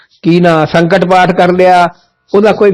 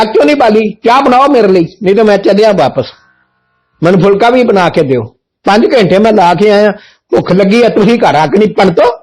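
raised, higher scolding of the household; calling out to the children in a raised scold; retold angry scolding; 3 semitones higher than usual. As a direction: demand tea like an irate guest. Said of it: "ਭਾਈ ਸਾਹਿਬ 'ਚ ਬੜਾ ਗੁੱਸਾ ਹੈ".

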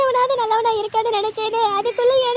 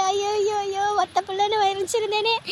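softer keening lament; soft wail; 4 dB quieter than usual. Acted. Mother mourning her only son, softly wailing. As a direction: grieve quietly for the son.

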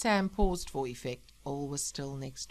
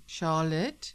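tentative question with rising end; uneasy; 3 dB louder than usual. Acted. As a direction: call her name with a touch of unease. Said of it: "said the man uneasily".

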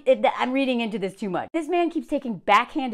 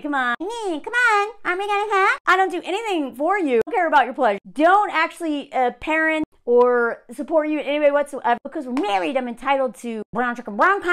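mock whiny, demanding husband; higher-pitched imitation of a pestering spouse; entitled husband; 4 semitones higher, 3 dB louder than usual. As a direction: push it like a hammed-up entitled husband.

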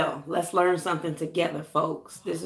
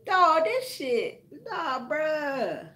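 disgusted groan; 8 semitones higher, much slower than usual. Real, not acted. Reacting to residue again.

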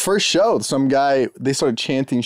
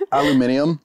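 Australian aluminium. Retold or imitated. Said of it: "aluminum was right".

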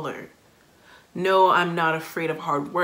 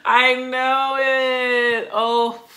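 excited; 6 semitones higher, 5 dB louder than usual. Real, not acted. Thrilled by the album's first song.

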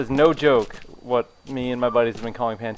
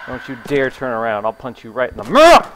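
loud threat; 6 dB louder than usual. Real, not acted. Threatening a game character.

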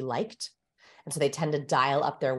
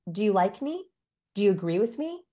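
permission-seeking questions, lifting at each end; appeasing uptalk; 3 semitones higher than usual. Shown as a demonstration. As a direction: rise on "me" as if seeking approval. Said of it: "this is appeasement body language".

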